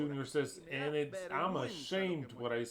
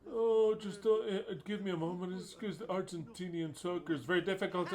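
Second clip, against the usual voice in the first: mimicking Russo's excuse; 3 semitones higher than usual. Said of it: "he's like".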